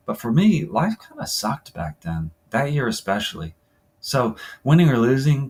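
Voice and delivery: understated first-person story reading; interview monologue. Acted. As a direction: read it as a player confiding about a tough year. Reads second player's interview aloud.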